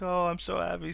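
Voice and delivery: mock tearful joy. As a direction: lightly play the overjoyed girl. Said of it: "It's like".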